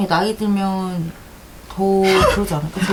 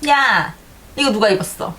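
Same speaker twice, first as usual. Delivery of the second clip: imitating a scolding sister; 2 semitones higher than usual. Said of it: "나 따라하는 거야?".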